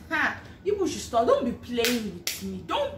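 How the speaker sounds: laughing disbelief, slowed playful warning; disbelieving excitement. Retold or imitated. New hire answering the director's offer call, disbelieving. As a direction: tease them not to play with you. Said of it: "I said".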